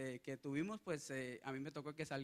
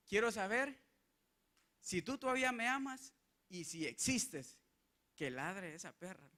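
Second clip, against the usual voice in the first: higher, anguished prayer fading out; retold anguished plea; 3 semitones higher than usual. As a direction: beg God through tears, then fall away. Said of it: "en mi tristeza y en mi agonía y llorando". (ruego angustiado, más agudo, que se apaga)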